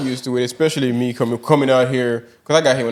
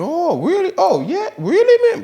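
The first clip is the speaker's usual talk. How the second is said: very high-pitched, put-on amazed listener; feigned interest; slower than usual. Listener humoring a Chicago talker he cannot understand, feigned interest. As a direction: react with exaggerated polite surprise. Acts out polite replies to talker.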